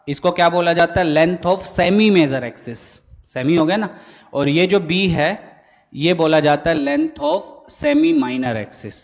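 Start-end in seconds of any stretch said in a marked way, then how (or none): 1.1-2.8 slow dictation. Shown as a demonstration. Teacher dictating a definition. 6.8-9.0 slow dictation. Shown as a demonstration. Teacher dictating a definition.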